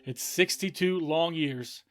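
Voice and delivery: imitating a commentator's slow, loud finish; McAvaney commentary scream. Fan retelling a grand final call, loud and slow. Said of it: "with McAvaney screaming".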